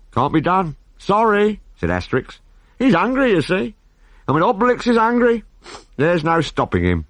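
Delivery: high cheerful hero voice; Asterix voice. Acted. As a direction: cheerfully refuse.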